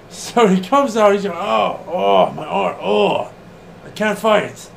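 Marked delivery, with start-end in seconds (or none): 1.3-4.7 imitating Gedo. Podcaster mimics injured Gedo begging Okada, whiny and pleading. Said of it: "That's how he talks".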